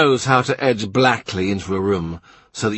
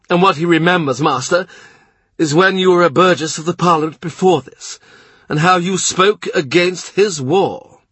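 the blustering Duke of Norfolk, pitched higher; gruff duke; 7 semitones higher, 4 dB louder than usual. A narrator's reading. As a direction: play the proud, impatient duke. Duke warns Cromwell.

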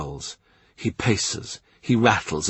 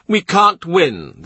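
the blustering Duke of Norfolk, pitched higher; gruff duke; 8 semitones higher, 4 dB louder, slower than usual. A narrator's reading. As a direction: play the proud, impatient duke. Duke voiced.

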